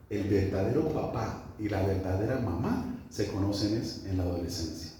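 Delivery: low, soft, measured teaching voice; quiet reflective preaching. Real, not acted. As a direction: bring the sermon down to a quiet reflection. (prédica reflexiva, en voz baja y grave)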